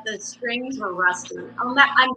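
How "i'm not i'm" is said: normal talking voice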